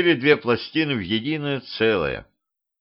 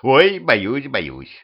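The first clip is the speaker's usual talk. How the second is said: mock fear; 2 semitones higher, much slower than usual. A narrator's reading. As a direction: pretend to be scared, jeering. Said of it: "хмыкнул скелет". (насмешливо изображая испуг)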